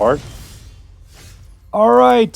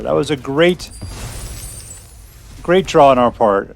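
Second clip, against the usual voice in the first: sarcastic. Pretend. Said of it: "Sarcasm incredibly included".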